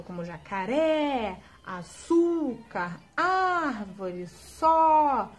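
jacaré, açúcar, árvore, só said slowly with wide open vowels; open vowel demo. Shown as a demonstration. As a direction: stretch the open é, ú, á and ó. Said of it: "deixa o som da vogal mais aberto".

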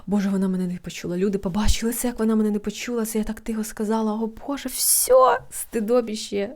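fast, rising panic with a squeak at the end; mock anxious panic. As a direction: spiral into mock embarrassment. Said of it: "почати тривожитись". (awkward panic)

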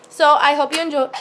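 talking through hiccups. Real, not acted. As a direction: hiccup breaking into the words. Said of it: "I had the hiccups".

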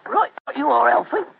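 a hint of Cockney, stiffly put on; weak Cockney. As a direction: try a Cockney workman, not quite convincing. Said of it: "My Cockney accent doesn't compare".

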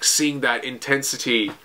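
ordinary talk, nothing marked

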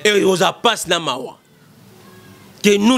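usual speaking voice

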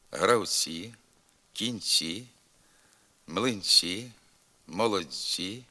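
palatalized ці in кальцій, цікавий, синиці; careful soft ts in горобці, млинці, вулиці; soft ц before і. Shown as a demonstration. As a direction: soften every ц before "і" to "tsyi". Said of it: "завжди м'якшиться перед голосним".

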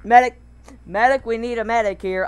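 urgent mock call for a medic; man down shout. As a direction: shout for help like a soldier. Calling for a medic in game.

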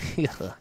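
short, half-hearted mock villain cackle; a quick cartoon-villain laugh, badly done; evil laugh. Fake Russian gamer shows his evil laugh, weak mock cackle. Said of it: "you see my evil laugh".

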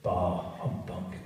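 loud, scornful Christmas rant; ranting Scrooge. Acted. Scrooge ranting at his nephew, loud and scornful. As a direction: spit out your contempt for Christmas.

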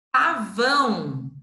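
"Pavão" stretched out slowly; slow reading. Shown as a demonstration. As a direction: draw the word out for young pupils. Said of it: "teacher reads word slowly".

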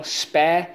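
"Specify" split into spe, ci, fy with gaps; syllable by syllable. Shown as a demonstration. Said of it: "Let's go".

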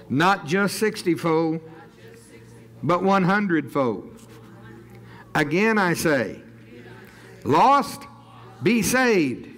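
firm, spaced-out decree; preaching declaration. Real, not acted. Preacher praying the Father's will be done, declaring. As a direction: declare it phrase by phrase, rising at the end. Declares blessing over the city.

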